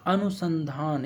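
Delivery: अनुसंधान slowly, "a-nu-san-dhaan"; sounding it out. Shown as a demonstration. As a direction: break अनुसंधान into drawn-out syllables. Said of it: "कैसे अनुसंधान होगा".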